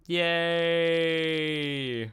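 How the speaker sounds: ordinary talk, nothing marked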